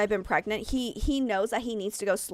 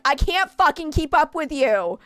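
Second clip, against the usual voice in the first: mock yell; 5 semitones higher, 5 dB louder than usual. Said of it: "And I'm like".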